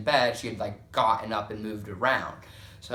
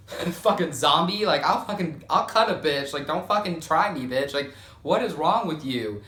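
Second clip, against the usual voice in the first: scared threatening; 3 semitones higher, 4 dB louder than usual. Retold or imitated. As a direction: threaten her, louder and higher. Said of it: "I was like".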